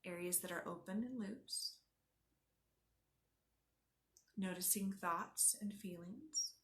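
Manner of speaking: unhurried yoga nidra guide; guided meditation. Acted. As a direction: guide them gently inward, leaving space after each instruction.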